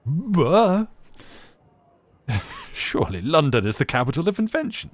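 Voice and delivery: hammed-up Frenchman defending London; mock indignant gent. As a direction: splutter it like a shocked gentleman. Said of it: "I'm like".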